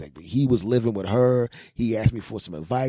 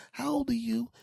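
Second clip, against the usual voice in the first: high, soft put-on voice; light high-voiced request; inquiring stranger; 4 dB quieter than usual. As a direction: ask timidly, pitched far up. Imagined stranger asking.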